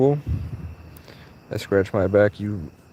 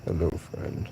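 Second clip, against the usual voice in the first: soft whisper to a cat; whispered hello to a stray cat; whispered greeting; 6 semitones lower, 8 dB quieter, slower than usual. Real, not acted. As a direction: breathe it gently to the cat.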